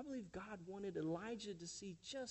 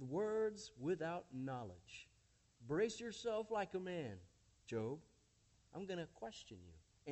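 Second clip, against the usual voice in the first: lightly voiced God challenging Job. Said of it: "God, ... speaks".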